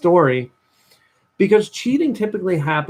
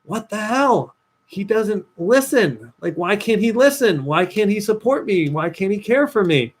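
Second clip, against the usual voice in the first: higher, lightly voiced exasperated girlfriend; frustrated girlfriend; 4 semitones higher than usual. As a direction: mimic her fed-up complaint. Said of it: "she was getting mad 'cause she's like".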